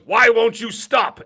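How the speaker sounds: loud, high, drawn-out taunt; imitating a game boss's exasperated shout; imitated yell. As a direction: call it out slowly, high and loud. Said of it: "and then he yells".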